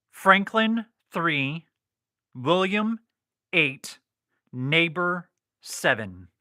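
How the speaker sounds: Franklin, William and Neighbor stressed and spelled out slowly; spelled out phonetically. Shown as a demonstration. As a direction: call each code letter out as a clear word. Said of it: "I spelled that out phonetically".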